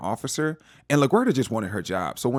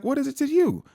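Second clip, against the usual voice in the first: sassy Deb. Retold or imitated. Deb snapping back at Dex.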